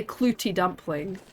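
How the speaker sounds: clootie dumpling said the Scottish way; Scottish accent. Shown as a demonstration. Streamer showing viewers her leftover Scottish words, Scottish accent. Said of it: "certain words I still say kind of Scottish".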